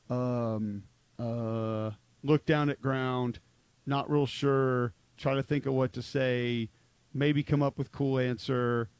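mildly hesitant, halting delivery with little inflection; unsure, no inflection. Retold or imitated. Analyst mimicking quarterbacks stuck on a question, hesitant and uninflected. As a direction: imitate an unconfident player slowly fumbling for words. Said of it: "no real inflection in their voice".

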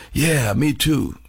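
slow, drawn-out laconic reply, lightly imitated; a rock musician. Musician answering a big fan, lightly imitated slow reply. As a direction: lightly mimic a slow-talking musician, stretching each word. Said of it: "that's the way he talks".

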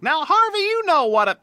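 losing patience with Harvey; exasperated. Acted. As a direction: gun seller scolding Harvey, exasperated.

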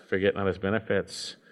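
a hushed reminder; quiet echo. Shown as a demonstration. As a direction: say it again softly to yourself. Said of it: "repeated exhortation".

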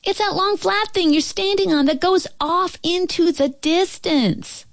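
put-on high, sustained girl's call; high-pitched distant calling; calling from afar. A narrator's reading. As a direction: holler an explanation over a distance. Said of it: "the little girl's voice came again".

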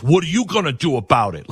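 put-on a childish bully's sneer; lightly voiced taunting bully. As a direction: taunt him like a schoolyard kid. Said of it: "and he says".

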